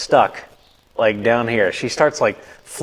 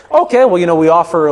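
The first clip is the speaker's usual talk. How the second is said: high, louder dentist sales pitch; imitated dentist; 6 semitones higher, 5 dB louder than usual. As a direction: launch into a put-on dentist's offer. Dentist retold pitching an aligner.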